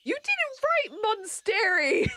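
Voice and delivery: high, slow laughing complaint; laughing protest. Real, not acted. Teasing about the word Monstery.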